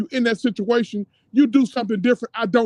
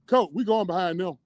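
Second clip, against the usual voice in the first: calling from far away. Pretend. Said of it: "I'm yelling across the field to the coach".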